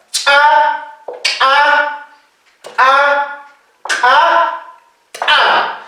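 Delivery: "Cha, a, a, a, a" with popped ejective onsets; reinforced ejective consonants. Shown as a demonstration. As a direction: pop the consonant, release into "a". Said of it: "Consonantes reforzadas". (consonantes reforzadas, explosivas)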